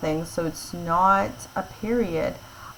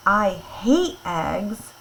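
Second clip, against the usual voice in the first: upset; much slower than usual. Shown as a demonstration. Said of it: "that's an upset person".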